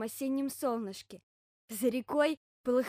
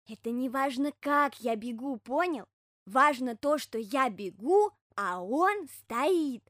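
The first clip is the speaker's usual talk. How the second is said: louder, slow hedgehog voice, leaning on key words; earnest hedgehog explaining; 5 dB louder, slower than usual. Acted. Hedgehog instructing bear cub how to watch him, slow and emphatic.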